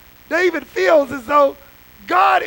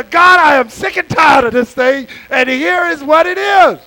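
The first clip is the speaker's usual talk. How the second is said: blunt honest prayer; 6 dB louder than usual. Retold or imitated. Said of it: "You just walk in there and say".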